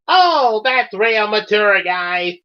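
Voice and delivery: high, mocking Australian accent, falling away at the end; sarcastic. Sakura mutters to herself about the boys, sarcastic Australian. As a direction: start very high and sneer it in Aussie. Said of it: "and sarcastically said to herself".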